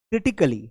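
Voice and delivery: "क्रिटिकली" as kri-ti-kuh-li; short middle "kuh" in "क्रिटिकली"; correct pronunciation demo. Shown as a demonstration. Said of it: "का नहीं है". ("क्रिटिकली" में छोटा "क")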